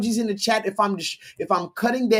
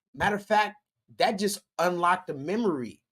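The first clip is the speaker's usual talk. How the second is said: ordinary delivery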